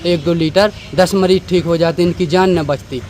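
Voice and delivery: a hint of the doctor shouting him down; retold doctor yelling. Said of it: "हमसे चिल्ला के doctor साहब बोले".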